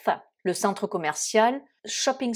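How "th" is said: TH said as the English th, tongue between teeth; English th sound. Shown as a demonstration. Teacher showing learners the English th sound, careful demo. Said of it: "vous le prononcez th".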